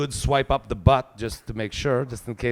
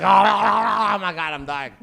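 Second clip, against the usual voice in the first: mock gasping; 6 semitones higher, 5 dB louder than usual. Gasping after drinking from tap.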